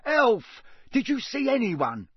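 impatient questioning. A narrator's reading. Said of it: "said Mister Diggory impatiently".

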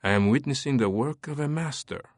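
lightly voiced French lieutenant musing. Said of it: "mused Lieutenant Collet".

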